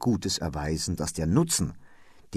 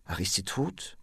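broken words; 4 semitones higher, 6 dB quieter than usual. A narrator's reading. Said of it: "nichts wie gebrochene Worte".

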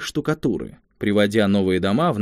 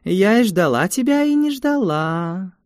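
mysterious gypsy voice; 9 semitones higher than usual. Acted. Gypsy fortune teller speaks.

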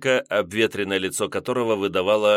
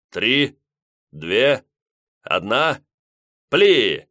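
countdown shout; 3 semitones higher, 5 dB louder, much slower than usual. A narrator's reading. Countdown to torpedo launch.

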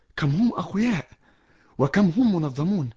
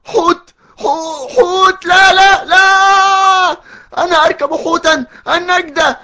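much higher and louder, tearful shouting and stammering; terrified screaming; 10 semitones higher, 8 dB louder than usual. Acted. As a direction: panic on a whale's back, praying aloud. Finds himself riding a whale. (صراخ مرتعب باكٍ)

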